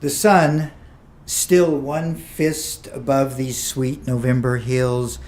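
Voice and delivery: poem read in short phrases with deliberate pauses; poetry reading. Acted. Poet reading a poem about a poem to an audience, poetry reading. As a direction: read it as verse, drawing out the images.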